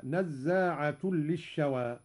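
نزاعة ending in damma, slowly; damma on nazaa. Shown as a demonstration. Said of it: "برفع نزاعة". (نزاعة بالرفع)

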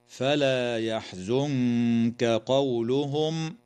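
very slow recitation; slow tajweed reading; Quranic recitation. Shown as a demonstration. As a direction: recite slowly and stop on قولهم. Verse recited.

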